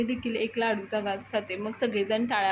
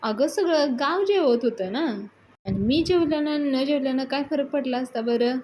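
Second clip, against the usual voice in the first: higher, louder protest, lightly acted; retold self-justifying explanation; 4 semitones higher, 4 dB louder than usual. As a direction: plead your case to a cross sister. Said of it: "Datta explanation देत असतो".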